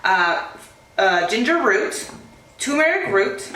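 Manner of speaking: holding back hiccups; hiccupy pauses between words. Real, not acted. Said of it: "sorry, I have hiccups".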